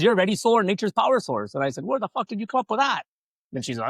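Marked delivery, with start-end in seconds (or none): 0.0-1.5 high, loud, proud announcement; mock excited wife. Wife pitching the company name, high and loud. 1.8-3.0 mock surprise. His own retold reaction.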